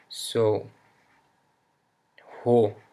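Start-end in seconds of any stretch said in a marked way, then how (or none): 2.4-2.8 Roberto said as Hoberto, with an h start; breathy h starts. Shown as a demonstration. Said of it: "the R sounds like an, uh, H".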